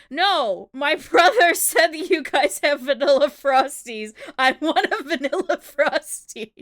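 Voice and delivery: giggling through the uncle's insistence; laughing while quoting. Retold or imitated. Laughing as she quotes the uncle arguing with the drive-thru worker. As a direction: retell the argument while cracking up.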